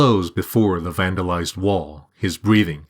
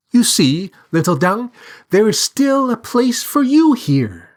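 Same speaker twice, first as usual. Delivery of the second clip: high-pitched bird character, rising higher and louder; consoling bird; 7 semitones higher, 3 dB louder than usual. A narrator's reading. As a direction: soothe him in a high little bird voice. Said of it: "the bird consoles him".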